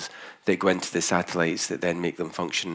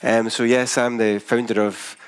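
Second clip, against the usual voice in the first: broad Scottish accent. Real, not acted. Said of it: "a very thick Scottish accent".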